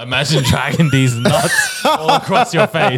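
slow, laughing taunt; laughing punchline. Retold or imitated. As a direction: drag out the punchline through laughter.

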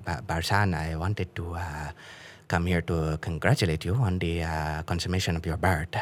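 stiff, pompous formal speaker; overly formal. Retold or imitated. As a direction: say it like a walking thesaurus. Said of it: "he cannot say something simply".

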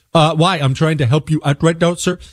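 lightly voiced phone agent. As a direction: mimic the confused support rep. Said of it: "this is how it went".

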